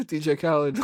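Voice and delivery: rapper name drop. Retold or imitated. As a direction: shout the name like a DJ intro. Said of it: "a rapper saying his name".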